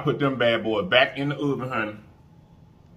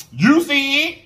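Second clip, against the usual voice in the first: high, loud cooing call; coaxing a wild bird; 7 dB louder, slower than usual. Pretend. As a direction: coo at it like a shy pet bird. Cooing at the chicken piece.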